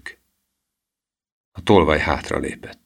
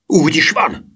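high, urgent exclamation; high-voiced indignant shout; boy's outcry; 11 semitones higher, 4 dB louder than usual. A narrator's reading. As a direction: cry it out, pitched well up. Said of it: "kiáltotta Emil".

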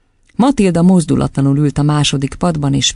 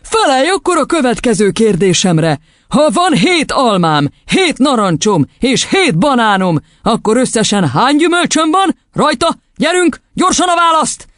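high, menacing quizzing; ominous; 10 semitones higher than usual. A narrator's reading. Headmistress quizzing the boy on fruit, ominous. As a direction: build up to a pressing demand. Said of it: "folytatta vészjósló hangon".

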